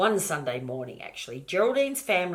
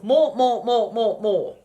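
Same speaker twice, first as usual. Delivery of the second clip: loud, high, insistent more; greedy piglet yelling more; demanding shouts; 6 semitones higher, 11 dB louder, slower than usual. Acted.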